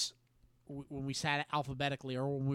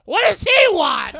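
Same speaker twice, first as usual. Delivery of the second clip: higher, louder, puzzled call; puzzled call back; 16 dB louder than usual. Retold or imitated. Girl asking mom what the boy wants, calling out.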